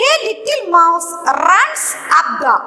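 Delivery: slow dictation. Shown as a demonstration. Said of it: "reading sentence slowly to class".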